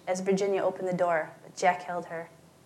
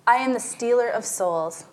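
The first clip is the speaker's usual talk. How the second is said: grand announcement; 4 semitones higher, 7 dB louder than usual. A narrator's reading. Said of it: "Susie announced".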